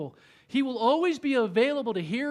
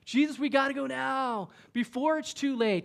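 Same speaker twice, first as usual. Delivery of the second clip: panicked urging; 5 semitones higher than usual. Retold or imitated. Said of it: "screaming through his head".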